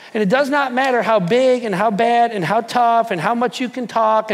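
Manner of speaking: rising preacher's fervour, pressing each phrase; preaching. Acted. Preacher to his congregation, fervent preaching. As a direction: drive the point home to the congregation. Preacher building to full force.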